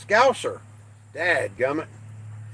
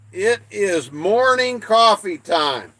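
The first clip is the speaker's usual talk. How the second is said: announcer voice; 5 semitones higher, 4 dB louder, slower than usual. Real, not acted. Announcing coffee time to viewers.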